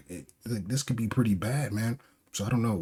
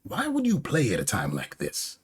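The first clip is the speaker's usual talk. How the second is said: high, exasperated acted scolding; visibly upset; 5 semitones higher than usual. Orochi objects to music during battle, upset protest. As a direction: snap at the player in annoyance. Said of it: "visibly upset, is like".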